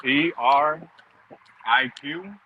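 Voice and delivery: talking while chewing; spelling it out through a mouthful of food; mouth full. Real, not acted. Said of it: "I'm sorry, I'm eating".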